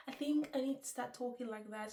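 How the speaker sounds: said through a laugh. Real, not acted. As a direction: laugh at yourself while saying it.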